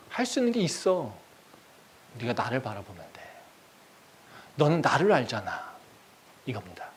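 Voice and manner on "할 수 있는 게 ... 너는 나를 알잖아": reassurance. Acted. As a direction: calmly persuade after the outburst. God then reassures the prisoner.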